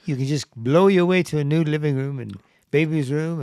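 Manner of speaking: faint, badly faked Australian accent; half-hearted stab at an Australian accent; failed Australian accent. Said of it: "That's your Australian accent?".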